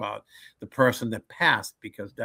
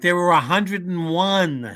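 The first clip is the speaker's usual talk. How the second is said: deadpan retort; 7 semitones higher, 5 dB louder, slower than usual. Retold or imitated. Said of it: "And I'd be like".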